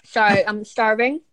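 talking between bites; eating while talking; wolfing down food. Real, not acted. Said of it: "I'm craving pineapple".

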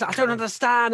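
imitated driver, high and exasperated; mock radio complaint. Host mimics the driver's confused radio rant, mock complaining. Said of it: "Yeah, and he just".

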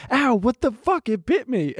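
retold startled yelp, pitched high; startled outcry. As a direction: act out the shock of being bitten. Reacting to a dog bite.

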